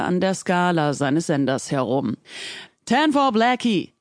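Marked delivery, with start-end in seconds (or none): 2.8-3.9 barely contained angry hiss; hissed, barely held anger. A narrator's reading. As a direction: hiss it, fury held back. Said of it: "zischte er mit einer Stimme ins Mic, die seine Wut nur schwer zurückhalten konnte".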